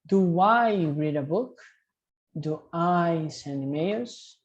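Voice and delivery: slow, clearly spaced model questions; slow drill. Shown as a demonstration. Teacher drills students with slow model questions. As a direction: model each question slowly for repeating. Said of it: "Vamos treinar".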